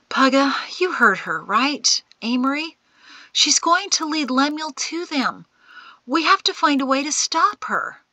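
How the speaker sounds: high, loud, worried pleading; urgent alarm. A narrator's reading. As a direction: press the old man urgently to act. Shin urges action to stop Amory.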